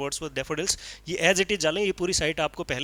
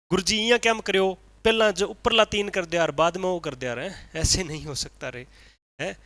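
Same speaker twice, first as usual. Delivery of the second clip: mock rustic student; 3 semitones higher, 4 dB louder than usual. Mimicking a confused student.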